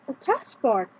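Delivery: "A transport" with stress on "trans"; first-syllable stress. Shown as a demonstration. Teacher showing the noun, "A transport" stressed on "trans". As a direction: lean on "trans" in "A transport", let "port" drop. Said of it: "If the stress is on first syllable".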